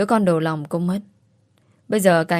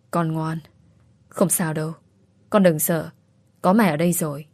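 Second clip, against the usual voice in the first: soothing. Acted. Mother soothes unborn baby.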